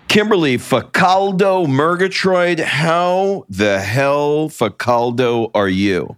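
hammed-up Italian flourish on Facaldo; playful mock Italian hello to his wife. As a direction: greet her like a jokey Italian showman, drawn out.

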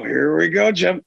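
eager rising call; Tony Romo setting up the play; Tony Romo impression. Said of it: "Romo would go".

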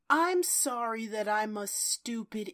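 lightly mocked over-the-top apology; Barbara Eden. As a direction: grovel theatrically, only half in earnest. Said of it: "Barbara Eden basically go".

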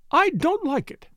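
high, pleading wail, falling off at the end. A narrator's reading. Mrs Ackroyd protesting to Poirot, high and wailing. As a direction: wail it, her voice going up high in distress. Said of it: "she wailed".

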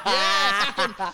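lightly voiced drunk rambler; a hint of drunken big talk; drunk fuckhead. Mocking his co-host's podcast schemes, lightly drunk. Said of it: "like a drunk fuckhead that's going like".

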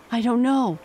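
high, loud desperate answer. A narrator's reading. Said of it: "desperation in his whole body".

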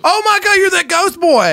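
very high-pitched astonishment; shocked recognition. Acted. Employee recognizing the ghost boy, shocked high outburst. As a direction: squeal it, stretching the end.

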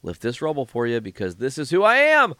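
hammed-up heroic announcement; mock heroic voice. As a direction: ham up the noble do-gooder. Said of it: "So he's like".

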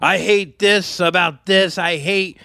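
slow, drawn-out griping; mock jaded rant; imitated grumpy comedian. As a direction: grouse like a comedian who hates everything. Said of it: "they hate everything".

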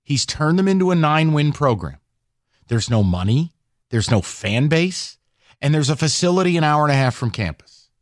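measured, condescending explanation, each claim set apart; slow and deliberate. Real, not acted. Host explaining to a doubting texter, slow and deliberate. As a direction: spell it out point by point, with pauses between. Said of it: "I'll say it slowly for you".

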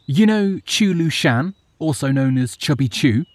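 high, eager servant voice; excited. Acted. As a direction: rush the news out eagerly. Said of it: "spoke excitedly".

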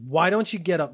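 rude demand. Retold or imitated. Old man on the bus to a sitting boy, mildly rude demand. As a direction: imitate a brusque order to get up. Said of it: "really rudely".

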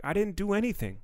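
high, defensive protest. Retold or imitated. Comedian answering staring tourists, high and defensive. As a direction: plead innocence with a squeak. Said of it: "I'm like".

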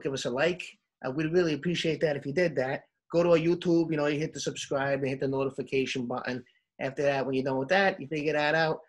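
lightly put-on New York accent; hammed-up New York guy plugging the socials. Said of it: "Do it in your New York accent".

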